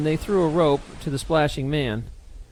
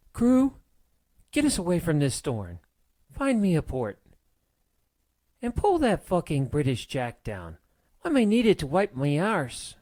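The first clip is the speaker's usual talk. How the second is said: yelling; 3 semitones higher than usual. Acted. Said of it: "she yelled".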